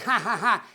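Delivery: short mock laugh from the guards; imitated laughter. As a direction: imitate people laughing at him. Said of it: "and they're laughing".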